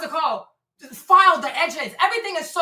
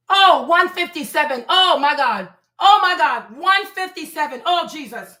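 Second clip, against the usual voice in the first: shocked; 5 dB louder than usual. Real, not acted. Shocked at the weight reading.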